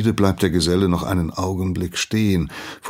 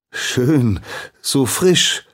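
high, loud, overeager praise; übereifrig; 8 semitones higher, 6 dB louder, much slower than usual. A narrator's reading. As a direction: gush eagerly like a keen boy. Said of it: "lobt der Junge übereifrig". (übereifrig und laut)

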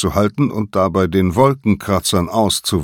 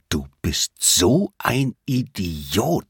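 exasperated groan; 3 semitones higher, slower than usual. A narrator's reading. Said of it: "Und Simon stöhnte".

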